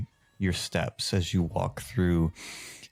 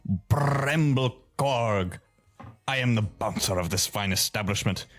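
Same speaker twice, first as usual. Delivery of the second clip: gnome bouncer; 3 semitones higher than usual. Acted. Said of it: "as he goes".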